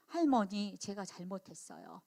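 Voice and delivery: put-on a small child owning up, barely audible; meek apology. Granddaughter apologising to grandmother, softly and meekly.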